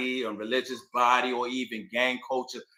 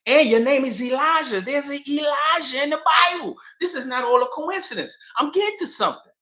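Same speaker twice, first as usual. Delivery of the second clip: voicing Farad; 12 semitones higher, 5 dB louder than usual. Farad voiced in retold story.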